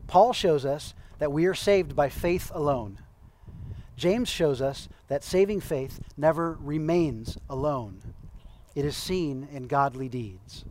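slow down and let each clause land. Shown as a demonstration. Preacher rereading a quote slowly because it's important. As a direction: read it again slowly, as if underlining it. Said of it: "I'm gonna read that again 'cause it's important".

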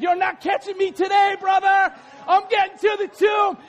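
high, shouted competitive taunt; excited acted boast; John racing, taunting. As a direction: crow over your shoulder mid-race.

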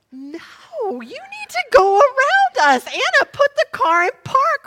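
high, loud panicked orders; shrieked instructions from a rattled passenger; frantic refusal. Retold or imitated. Frazzled mother answers the old lady.

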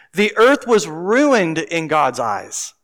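deliberate, slow scripture reread. Acted. Preacher rereading the verse with the new meaning, slow and deliberate. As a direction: let the new word land as you read. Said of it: "let's reread a couple of these verses".

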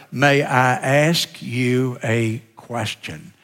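slow, gentle polite request; politely asking. Shown as a demonstration. Preacher shows trainees the nice way to ask. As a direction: ask it slowly and kindly, like asking permission. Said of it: "Talk about being nice".

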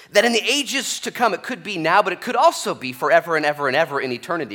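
loud, high, building proclamation; preaching swell. Acted. Preacher rousing the congregation, loud and high. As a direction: lift it up and proclaim.

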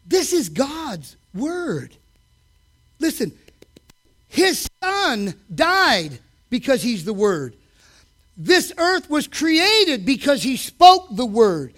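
slow, weighty preacher's delivery; solemn preaching. Acted. Preacher to the church, slow and solemn. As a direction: let each word land.

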